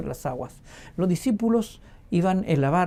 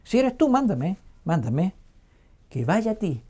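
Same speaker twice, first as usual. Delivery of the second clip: cheeky order. Acted. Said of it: "le da una orden a Jesús".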